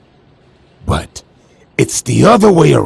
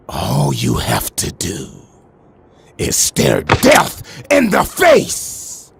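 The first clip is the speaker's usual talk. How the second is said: menacing threat; 2 semitones lower, slower than usual. Acted. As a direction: stretch it into a gloating threat. Black Mask threatens Jason.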